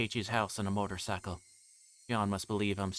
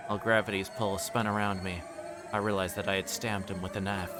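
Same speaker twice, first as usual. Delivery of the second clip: usual speaking voice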